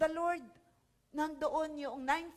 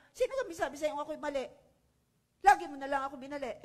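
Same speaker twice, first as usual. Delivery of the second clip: defensive retort; 4 dB louder, much faster than usual. Retold or imitated. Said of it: "kung ikibabanat pa".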